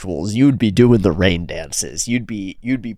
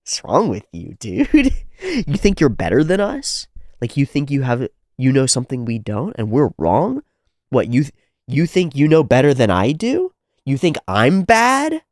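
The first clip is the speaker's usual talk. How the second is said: much higher, loud jeering tough-guy voice; hammed-up toxic bro, much higher; mocking macho bully; 7 semitones higher, 4 dB louder than usual. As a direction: taunt him like a sneering warrior. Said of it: "It's like".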